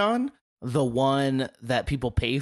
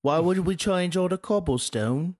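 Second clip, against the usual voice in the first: hammy Cockney question, pitched up; mock Cockney; 5 semitones higher than usual. Friend riffing as a local about roads, mock Cockney. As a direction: protest in a bad Cockney voice. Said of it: "I like Cockney".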